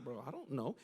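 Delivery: dropped low and soft; lightly voiced low shrug; low mumbled shrug. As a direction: mumble it like a guilty kid. Job shrugging it off.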